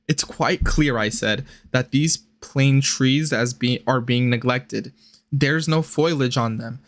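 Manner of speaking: even-paced literary read; reading aloud. A narrator's reading. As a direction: read the old letter out evenly. Reads the letter aloud.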